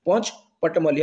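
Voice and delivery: ପଞ୍ଚପଟମଲ୍ଲି said slowly, part by part; careful, slow ପଞ୍ଚପଟମଲ୍ଲି; own pronunciation. Shown as a demonstration. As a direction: sound out ପଞ୍ଚପଟମଲ୍ଲି slowly as a local place name. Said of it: "ମୁଁ ମୋ ହିସାବରେ pronunciation କରିକି କହୁଛି".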